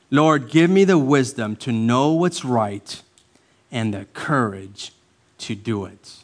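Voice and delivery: slow, phrase by phrase, softening at the end; deliberate prayer. Shown as a demonstration. Pastor repeating a model prayer for congregation, slow and deliberate. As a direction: pray it slowly with pauses between phrases.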